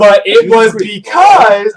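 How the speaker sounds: laughing through the words; slow, loud, laughing confession. Real, not acted.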